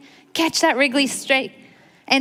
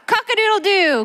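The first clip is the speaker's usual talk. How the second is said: rooster crow; 9 semitones higher than usual. Shown as a demonstration. Storyteller crows for the kids like a rooster. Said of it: "Wake up and shout".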